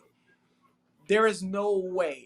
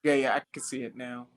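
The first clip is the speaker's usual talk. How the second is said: hollow, choppy connection; inside a fishbowl; 12 semitones lower, 4 dB quieter than usual. Real, not acted. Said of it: "it sounds like you're in a fishbowl".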